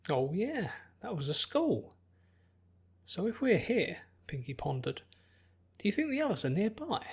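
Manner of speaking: put-on a cheerful girl thinking aloud; curious Pinkie.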